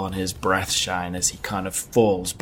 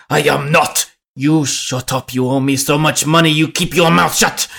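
put-on louder, higher drunken retort; angry drunk; 5 semitones higher, 6 dB louder than usual. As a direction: bicker back like a drunk. Drunk argues with innkeeper.

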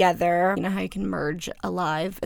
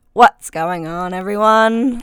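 louder, drawn-out mimicry of the co-host; Emma; 7 dB louder than usual. Shown as a demonstration. Showing off an impersonation of the co-host, loud drawn-out mimicry. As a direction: stretch it out, imitating a friend's greeting. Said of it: "do a really great Emma impersonation".

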